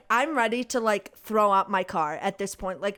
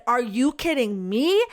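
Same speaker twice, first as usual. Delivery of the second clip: louder, mildly mocking the angry lady; mildly angry retort; 4 dB louder than usual. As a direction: snap it back at her. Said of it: "getting all mad at me".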